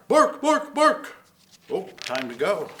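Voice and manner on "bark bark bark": high, loud dog barks; barking dog. Acted. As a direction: bark like an excited dog. Voicing the Dalmatian barking.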